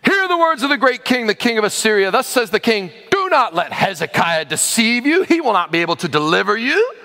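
a touch of a herald's proclamation; lightly proclaimed Rabshakeh. Acted. Envoy calling out the king's words to Judah, lightly declaimed. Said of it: "called out in a loud voice".

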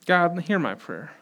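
soft pleading prayer; humble request. Acted. Showing a lament as a request to God, softly pleading. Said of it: "It's a request".

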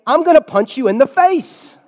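high, loud acted threat; hammed-up belligerent outburst; mock aggressive shout. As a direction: shout it like a panicking swimmer lashing out. Acted attack on the rescuer.

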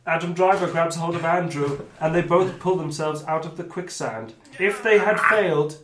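emphatic storytelling read; game master narration. Acted. Game master telling players the leap worked, emphatic narration. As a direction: announce the outcome like a storyteller. Reads the outcome.

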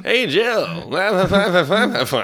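a lightly voiced smarmy Phil Hartman; Phil Hartman impression. Friend doing a quick smarmy impression, barely changed. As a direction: slick it up like a smarmy neighbor. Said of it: "Here's my Phil Hartman impression".

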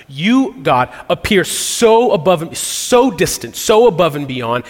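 preacher acting out a fervent prayer; impassioned crying out. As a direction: plead insistently in the psalmist's place. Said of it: "crying out in some type of pain".

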